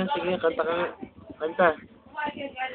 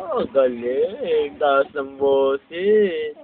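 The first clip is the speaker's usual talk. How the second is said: slow praise; 5 semitones lower, 4 dB louder, much slower than usual. Real, not acted. Praising baby's singing slowly.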